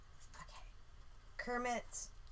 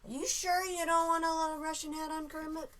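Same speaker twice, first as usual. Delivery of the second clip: bad Russian accent; 8 semitones higher than usual. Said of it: "A really bad Russian accent".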